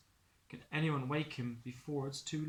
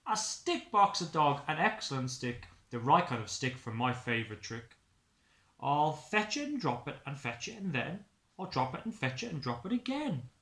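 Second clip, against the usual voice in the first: louder, excited dog voice; eager dog; 3 dB louder than usual. Acted. Dog finds the perfect stick, excited and playful. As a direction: bounce through it like a playful pup. Dog's voice.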